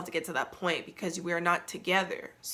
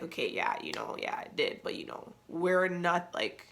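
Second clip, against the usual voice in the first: imitating him; 5 dB quieter than usual. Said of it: "being like".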